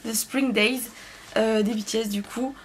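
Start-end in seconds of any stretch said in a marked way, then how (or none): 0.1-0.8 quick, offhand French-accented song title; retrying the English title more casually, still French-accented. Real, not acted. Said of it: "excusez-moi pour mon accent".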